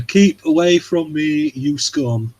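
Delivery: slow, haughty mock brush-off; mock disdain. Mocking a pop star shooing off a fan, slow haughty disdain. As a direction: push the fan away with lofty scorn, slowly.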